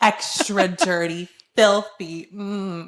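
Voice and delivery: drawn-out mock sultry order; mock seductive. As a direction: savor each word in mock lust. Mocks a sexualized drink order.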